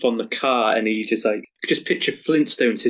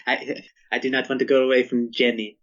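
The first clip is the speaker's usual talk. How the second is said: light French accent, played for laughs. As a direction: lean into a mock French accent. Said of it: "giving him a French accent".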